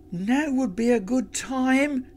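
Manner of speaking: high call to a friend. Acted. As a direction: call it out brightly. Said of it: "she called out".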